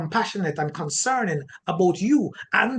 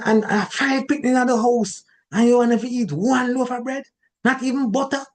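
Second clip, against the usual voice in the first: higher, nagging harangue in patois; mock complaining spouse; complaining rant; 5 semitones higher than usual. Shown as a demonstration. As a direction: scold the spouse like a fed-up nag. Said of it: "as against now".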